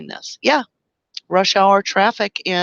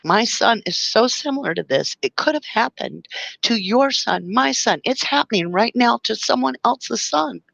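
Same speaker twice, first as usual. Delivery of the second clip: emotional; 5 semitones higher than usual. Real, not acted. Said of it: "I'm just very emotional".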